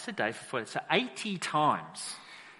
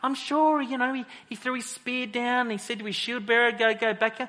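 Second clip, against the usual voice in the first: much higher and louder, swaggering challenge; cocky taunting shout; 10 semitones higher, 7 dB louder than usual. Retold or imitated. Goliath taunting the Israelite army, loud cocky shouts. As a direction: bellow it like a bully daring anyone. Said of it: "he's strutting around".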